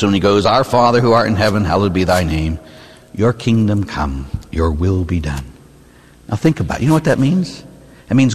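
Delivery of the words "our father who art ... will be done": reverent prayer. Shown as a demonstration. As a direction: pray it humbly as a true surrender. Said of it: "if we prayed what we meant".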